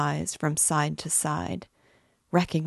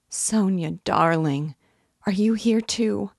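higher, surprised greeting, rising at the end; 4 semitones higher, 5 dB louder than usual. A narrator's reading. Dying woman finding Sonia beside her, surprised. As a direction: lift the voice in fond surprise. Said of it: "as though surprised to find her there".

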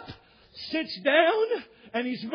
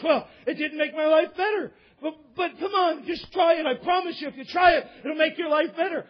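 insistent back-and-forth, pitched up; acted argument; 3 semitones higher, 4 dB louder than usual. Passenger and stewardess argue over the parachute, insistent. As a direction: plead and protest with rising force.

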